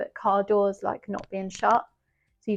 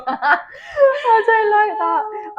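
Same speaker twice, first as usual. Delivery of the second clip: half-laughing whimper; 13 semitones higher, 8 dB louder, much slower than usual. Real, not acted. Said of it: "scared by gas mask child".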